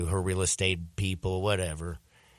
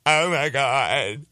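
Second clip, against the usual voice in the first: mock overwhelmed cry, pitched up and louder by the end; imitating tearful girlfriend; 4 semitones higher, 4 dB louder than usual. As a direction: act out a girlfriend bawling with joy, stretching the last words. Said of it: "she just started crying".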